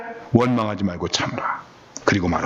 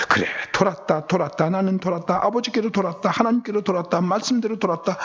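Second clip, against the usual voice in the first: insistent, repeated phrases climbing higher; acted defiant reply; 6 semitones higher than usual. Noah answers the mocking children, acted defiant insistence. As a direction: imitate owning the insult, building in pitch.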